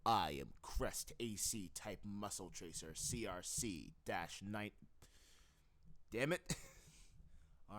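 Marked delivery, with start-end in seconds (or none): 0.0-4.7 voice take for Crest. Shown as a demonstration. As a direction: read it like a mech's ID line. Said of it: "take two for Crest".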